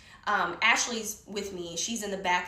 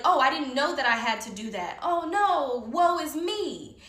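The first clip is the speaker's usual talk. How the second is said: mock helpless whine, rising higher; Melvin playing stupid; 4 semitones higher, 3 dB louder than usual. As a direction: feign cluelessness, drawing out the lament. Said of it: "Melvin likes to play stupid on purpose".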